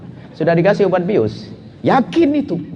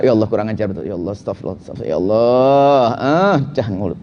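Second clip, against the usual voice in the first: angry muttered prayer; 8 semitones lower than usual. Shown as a demonstration.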